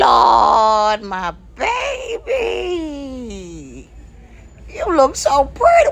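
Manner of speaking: tearful. Acted. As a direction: cry out with overwhelmed pride. Grandma overcome seeing dressed grandchild.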